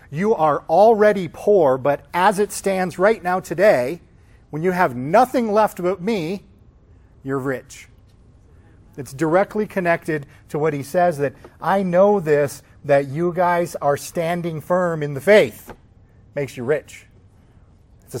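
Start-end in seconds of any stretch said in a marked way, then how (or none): 0.1-6.4 loud, slow and higher, each word driven home; preacher hammering out the point; emphatic declaration. Acted. Emphatic rebuttal, voicing Jesus. 11.6-15.7 slow, loud, weighty declaration; preacher driving home the praise; emphatic affirmation. Acted. Emphatic voicing of Jesus' commendation.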